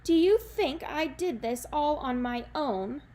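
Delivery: ranting. Acted. Jack turns on Granny, a loud crazed rant. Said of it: "he ranted".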